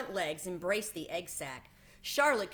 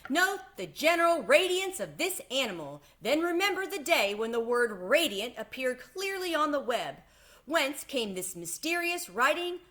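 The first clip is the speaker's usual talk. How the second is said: higher, louder grand speech; fair announcer; 6 semitones higher, 5 dB louder than usual. A narrator's reading. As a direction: proclaim the miracle to the fair. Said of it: "continued the loudspeaker".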